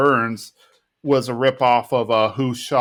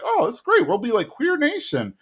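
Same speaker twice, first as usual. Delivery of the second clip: much higher, gushing imitation; mock enthusiasm; 13 semitones higher than usual. One of the guys cheering the plan, mock-excited. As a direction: play an eagerly agreeing pal.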